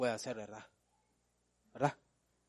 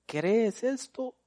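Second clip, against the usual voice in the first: slow tender question; 9 semitones higher, much slower than usual. Retold or imitated. Jesus asks Martha.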